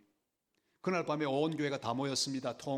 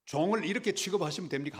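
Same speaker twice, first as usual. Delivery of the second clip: indignant protest, building louder and higher; retold complaint; 3 semitones higher, 4 dB louder than usual. Pastor complaining to God about living with rats, indignant. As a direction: complain upward, pushing harder on the last question. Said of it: "제가 하나님 앞에 불평했습니다".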